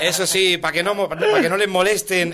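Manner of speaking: rhythmic recital of satirical verse; poem recitation. Acted. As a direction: recite rhymed verse line by line.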